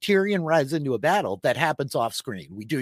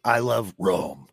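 announcer voice; 4 semitones lower, 3 dB louder, slower than usual. Pretend. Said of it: "Bumper stickers".

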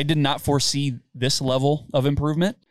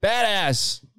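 excited shout "Heart"; 6 semitones higher, much slower than usual. Real, not acted. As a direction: hype up the word "Heart". Hyping player.

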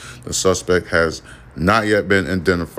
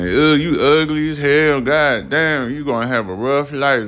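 mocking little girls; 7 semitones higher than usual. Girls teasing the twenty-three-year-old, high mocking kid voice. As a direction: sneer like a bratty little girl.

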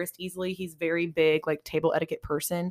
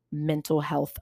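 whispered; slower than usual. Real, not acted. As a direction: whisper the words hesitantly. Hesitant sensitive topic.

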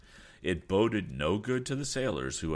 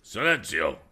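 angry cry; 4 semitones higher, 7 dB louder than usual. A narrator's reading. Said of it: "cried the lieutenant, scowling again".

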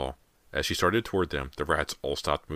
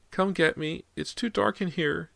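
put-on high little-boy plea; frightened child; 14 semitones higher than usual. A narrator's reading. Boy begs from inside the wall, high and frightened. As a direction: plead slowly in a small scared voice. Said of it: "James's voice sounded even softer now, more frightened".

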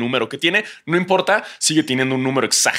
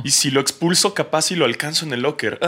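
swooning referee; 5 semitones higher than usual. Retold or imitated. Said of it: "el árbitro se puso nervioso y dijo".

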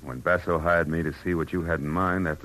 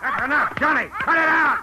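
sharp command; 5 dB louder than usual. Acted. Stopping the attack.

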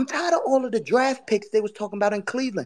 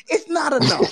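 laughing; 4 semitones higher, 4 dB louder than usual. Real, not acted. Laughing at rival team.

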